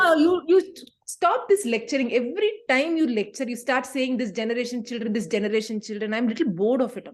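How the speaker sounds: put-on exasperated teen talking back; fed-up teenager. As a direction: cut in on the parent's lecture. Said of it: "more like a teenager".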